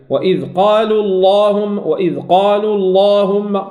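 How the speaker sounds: slow recitation with heavy L in «اللهم»; lam enfático após damma. Shown as a demonstration. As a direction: hold اللهم dark and long after قالوا. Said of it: "الضم".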